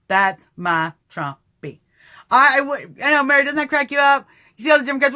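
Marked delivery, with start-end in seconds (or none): 0.1-1.8 fond. Real, not acted.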